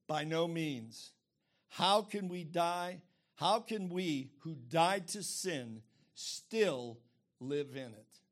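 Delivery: slow, deliberate rebuttal; measured, emphatic scripture quote; emphatic response. Acted. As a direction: answer firmly, weighting each word. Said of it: "Paul's emphatic response to this accusation".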